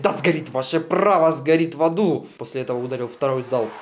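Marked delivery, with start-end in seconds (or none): 0.0-2.3 shouted curse. Acted. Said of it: "грозит кулаком и кричит".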